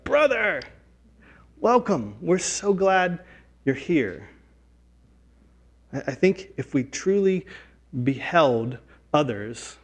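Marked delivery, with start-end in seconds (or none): 0.0-4.3 warm welcome. Pretend. Welcoming a swearing stranger.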